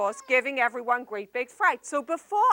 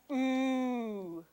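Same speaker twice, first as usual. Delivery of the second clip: quiet wondering ooh; soft ooh; 6 dB quieter than usual. Shown as a demonstration. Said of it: "I want everybody to say".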